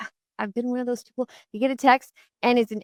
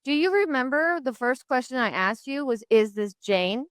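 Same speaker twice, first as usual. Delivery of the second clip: sassy; 4 semitones higher than usual. Retold or imitated. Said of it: "I kinda sassily said".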